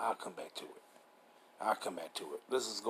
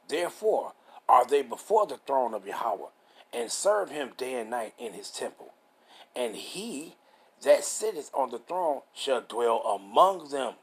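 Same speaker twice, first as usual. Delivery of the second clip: slow, measured Bible reading; deliberate, phrase-by-phrase preacher's reading; scripture reading; slower than usual. Real, not acted. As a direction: read the verse out with drawn-out key words. Reads scripture aloud.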